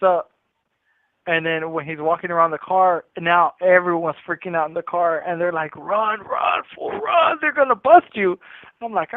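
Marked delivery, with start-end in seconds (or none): 5.8-8.4 high, urgent cries of run; panicked urging. Retold or imitated. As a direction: friends begging him to bolt, pitch jumping way up. Friends panic, urging him to run.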